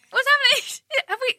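very high, bewildered aside; mock confusion. Actor looking at co-star Tom after cut, high mock confusion. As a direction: replay a helpless query to a co-star.

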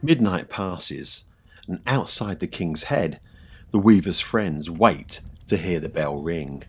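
slow, hushed storyteller voice; ghost story narration. A narrator's reading. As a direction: draw out the suspense.

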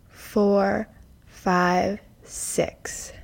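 slow guided breath count. Acted. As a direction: count the breaths calmly and slowly.

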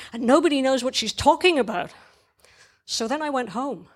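lightly voiced kid winding up a tale; child's story monologue. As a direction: end the childlike account with a small letdown. Child narrator ends the story.

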